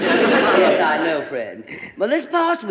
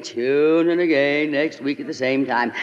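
announcer voice; 3 semitones lower than usual. Retold or imitated. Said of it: "the announcer forever saying".

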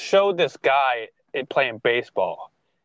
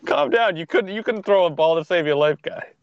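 mock scolding; 4 semitones higher than usual. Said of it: "It's like".

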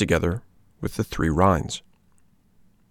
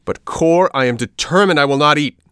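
louder, higher defiant shout; shouting angrily; 7 semitones higher, 6 dB louder than usual. Acted. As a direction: snap back like a viper. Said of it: "shouted the puppet, turning on him like a viper".

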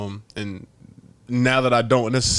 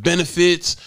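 sarcastic job pitch; 6 semitones higher, 4 dB louder than usual. Retold or imitated. Mocking the job's sales pitch.

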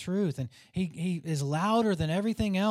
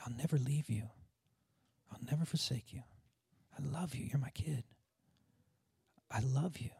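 low, hushed near-whisper with pauses; gentle whisper; 5 semitones lower, 6 dB quieter than usual. Acted. Preacher voicing God to his child, low tender whisper. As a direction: murmur it softly, close to the listener's ear. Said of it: "he whispers because he's close".

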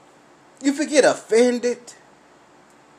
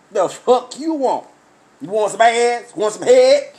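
cocky alter ego; 2 semitones higher, 4 dB louder than usual. Acted. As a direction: play the wild side hitting on someone. Voicing his wild side Trey.

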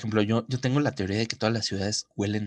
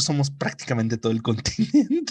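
louder and higher, breaking into a laugh; amused, laughing pretend brag; laughing mock boast; 4 semitones higher, 4 dB louder than usual. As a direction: crack up on the last word. Riffing as Australia, breaks into laughter.

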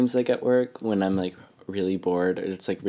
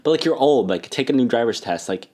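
put-on louder, annoyed jab at an old driver; exasperated rant; 2 semitones higher, 6 dB louder than usual. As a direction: vent it with exasperation.

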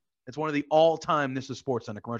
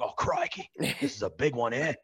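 lightly imitated excited Australian accent; amateur Aussie wildlife man impression; Steve Irwin; 4 dB quieter than usual. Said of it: "Steve Irwin does this thing".

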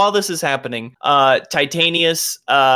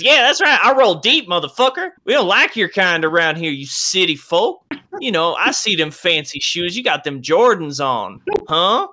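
gloating patron; 5 semitones higher than usual. Acted. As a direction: crow about it to the whole bar. Patron gloats after stranger leaves.

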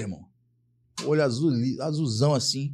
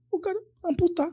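imitating the doctor in a much higher voice; high squeaky doctor impression, retold; mock doctor. Surgeon saying amputate, in a mock high voice.

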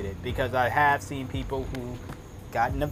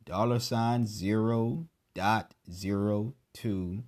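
slow spelling out; 2 semitones lower, slower than usual. Shown as a demonstration. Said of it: "Two cents is spelled numerically".

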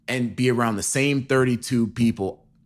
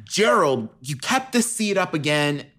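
nagging wife; 6 semitones higher than usual. Pretend. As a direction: scold him like a fed-up wife. Improvised Mars couple breakup.

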